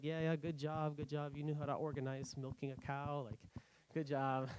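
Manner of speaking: lightly sarcastic well done; mock congratulations. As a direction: give them a hard time with fake praise. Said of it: "I give them a hard time".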